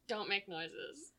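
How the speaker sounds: slow, quiet, deliberate rule; slow deadpan. Pretend. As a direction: lay down the rule slowly.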